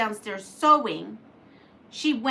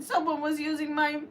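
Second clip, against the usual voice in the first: high, louder mock whimper; a cub near tears over the needle; crying voice; 6 semitones higher, 3 dB louder than usual. A narrator's reading. Baby Bear complaining of his broken machine, whiny mock cry. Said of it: "Baby Bear in a crying voice said".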